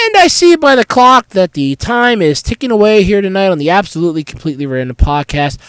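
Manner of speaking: stuffy nose from a cold; blocked-nose nasal voice. Real, not acted. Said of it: "listening to my nasal voice right now".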